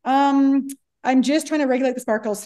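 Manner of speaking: lightly mock-sheepish; retold embarrassment. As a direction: imitate an embarrassed explanation to a cop. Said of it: "I was so embarrassed".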